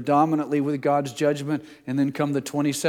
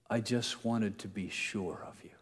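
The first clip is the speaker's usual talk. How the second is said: soft unvoiced whisper of Piglet; 3 semitones lower, 9 dB quieter than usual. A narrator's reading. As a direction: breathe it like a timid little pig. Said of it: "said Piglet, taking Pooh's paw".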